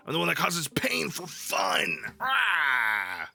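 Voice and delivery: hammed-up evil gloat that ends in a shout; mock villain boast. Streamer answering chat as a hammy villain, mock evil shout. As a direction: play the cartoon baddie proudly.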